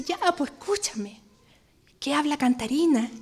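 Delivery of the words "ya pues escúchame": soft unvoiced whisper. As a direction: whisper it close, coaxing. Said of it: "me dice".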